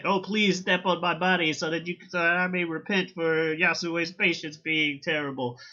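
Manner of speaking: a hint of a grovelling underling; servile little servant. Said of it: "this little servant dude".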